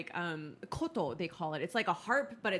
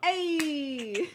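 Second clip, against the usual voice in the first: loud, low Spanish greeting; deep Spanish hey; 8 semitones higher, 6 dB louder than usual. Shown as a demonstration. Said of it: "my voice drops".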